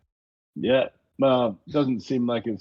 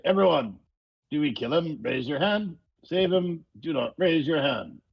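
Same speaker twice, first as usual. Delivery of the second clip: higher-pitched address to the party; calling a group vote; 6 semitones higher than usual. Acted. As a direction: put it to the group like a show of hands. Player polls party in character.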